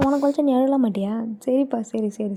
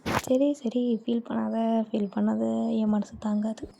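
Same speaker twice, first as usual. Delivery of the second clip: gently calm someone upset, trailing softer; tender hushing reassurance; soothing; 4 dB quieter, slower than usual. Acted. Consoles the upset girl.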